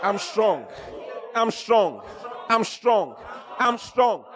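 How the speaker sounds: repeated I'm strong building to a shout; declaring I'm strong. Shown as a demonstration. Preacher showing the flock how to declare, building to a shout. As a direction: rise from meek to bold, I'm strong. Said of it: "What should you say?".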